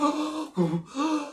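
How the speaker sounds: mock wheeze. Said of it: "He's wheezing and breathing".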